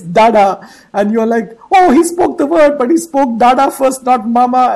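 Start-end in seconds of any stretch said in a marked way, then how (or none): 0.0-0.7 put-on louder, a baby's Dada; baby's first word. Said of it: "the child opens his mouth and says". 1.7-4.7 higher, louder mock dismay; mock upset surprise. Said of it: "And then you get upset".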